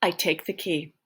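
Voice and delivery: unvoiced whisper on I take the key. Shown as a demonstration. Reading the key theft to students, whispered. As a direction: breathe it as a secret.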